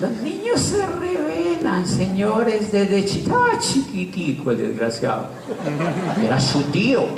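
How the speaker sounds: hablando entre risas, voz alta; riendo. Real, not acted. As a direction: decirlo muerto de risa. (riéndose de la travesura del sobrino, entre carcajadas)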